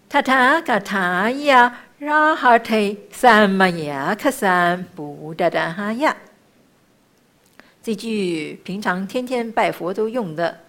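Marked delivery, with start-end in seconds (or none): 0.1-6.1 slow, drawn-out sacred syllables; measured chanting, easing off at the end; mantra recitation. Shown as a demonstration. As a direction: chant it with long held vowels.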